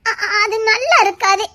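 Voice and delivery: slow, stammered start; hesitant objection. Acted. Friend objecting to being teased, hesitant. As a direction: stumble into it slowly, drawing out the words.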